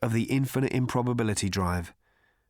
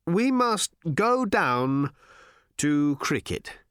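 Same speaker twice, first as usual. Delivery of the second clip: very slow, higher and louder, dread-filled; fearful old man; 5 semitones higher, 3 dB louder, slower than usual. Acted. Slartibartfast telling the crew they must go, frightened. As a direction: force out the words with dread.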